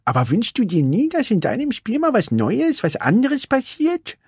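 put-on high, bored young racer; Vanellope's voice. Vanellope tells Ralf she is bored, wistful.

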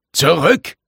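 high, urgent yell; yelled command. A narrator's reading. Hansen orders companion away from the whirlpool, yelled command. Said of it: "brüllte Hansen".

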